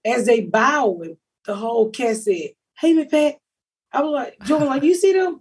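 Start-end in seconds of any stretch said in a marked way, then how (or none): 2.8-3.3 mock call across to someone you recognize; calling out greeting. Cast greeting her from the stage, calling out. 4.8-5.4 retold amazement, pitched high; high-pitched, disbelieving check with a friend; amazed. Asking Jordan about the cast greeting her, amazed. Recalls amazement at being recognized.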